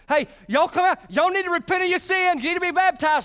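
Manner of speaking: John calling people to the river; John the Baptist calling. Retold or imitated. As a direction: call the crowd out to repent. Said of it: "He's out there baptizing".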